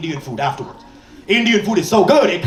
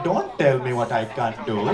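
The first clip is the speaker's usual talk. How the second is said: much lower and softer, stubborn mom; defiant mom; 9 semitones lower, 5 dB quieter than usual. Retold or imitated. Mom answering her daughter, low and defiant. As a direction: lower the voice into a stubborn mother's retort. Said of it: "she was like".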